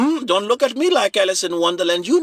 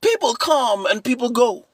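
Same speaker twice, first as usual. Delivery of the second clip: stern brotherly warning; 3 semitones higher than usual. Retold or imitated. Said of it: "I said".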